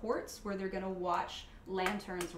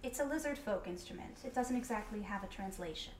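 grand rhythmic bard; 5 dB quieter than usual. Acted. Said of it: "your default bard voice".

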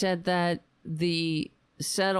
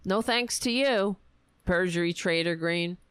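mocking Easter greeting; 4 semitones higher than usual. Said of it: "just like when Easter".

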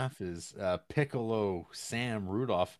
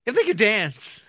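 laughing squeal; 14 dB louder than usual. Real, not acted.

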